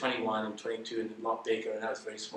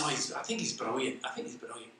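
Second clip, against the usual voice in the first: put-on light Scottish accent, fading softer; 6 dB quieter than usual. Mother approving of Sassoon to her child, light Scottish accent. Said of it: "my little Scot".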